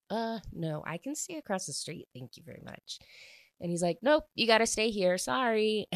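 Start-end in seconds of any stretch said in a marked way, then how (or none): 0.1-3.0 imitated brush-off, sinking to a near-whisper; mock polite refusal. Retold girl refusing to stay. 4.0-5.9 higher, louder, quick imitated overruling; mock brisk refusal. Retold boy overruling her refusal.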